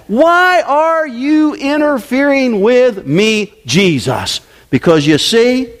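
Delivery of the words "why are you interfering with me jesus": slow, drawn-out demon question; lightly voiced resentful demon, slowed right down; demon's question. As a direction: stretch it out so they circle it. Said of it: "I want you to see that every time you read that".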